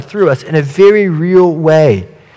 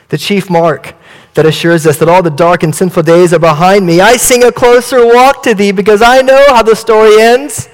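higher, self-satisfied prosperity believer; prosperity boaster; 4 semitones higher than usual. Acted. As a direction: brag about blessings with a bright lift. Tulsa Christian boasts of prosperity.

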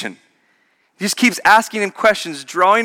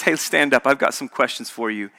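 gentle inviting God; 3 semitones lower, 3 dB quieter than usual. Shown as a demonstration. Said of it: "That's more the tone of Yahweh".

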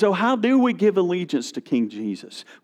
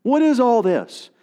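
angry Daniel; 6 semitones higher than usual. Retold or imitated. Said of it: "is angry. He's like".

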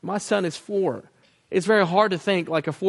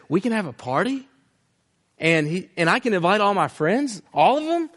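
put-on rising to a much higher, eager child voice; a kid suddenly thrilled about a party; excited little boy; 3 semitones higher than usual.

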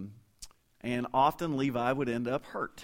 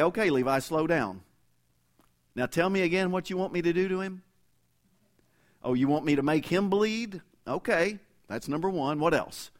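patient note-taking parent; 6 semitones higher, 3 dB louder than usual. Retold or imitated. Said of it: "I could get a notebook and say".

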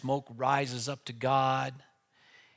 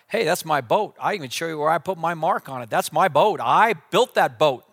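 indignant claim; 2 semitones higher, 5 dB louder than usual. Acted. Boy claims his boat, loud.

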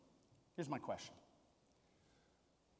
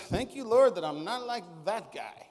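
a self-congratulating Pharisee thanking God; mildly hammed-up smug prayer. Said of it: "the Pharisee goes".

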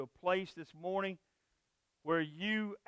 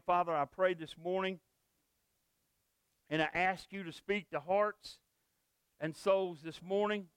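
closing prayer. Acted. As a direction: pray for the congregation, unhurried. Pastor leads closing prayer.

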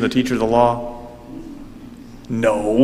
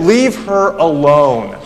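firm rebuke; 4 dB louder, slower than usual. Retold or imitated. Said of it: "Jesus said".

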